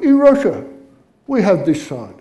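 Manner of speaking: matter-of-fact put-on Russian accent; lightly acted Russian accent. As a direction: explain calmly as an unbothered Russian. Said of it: "And the Russian goes".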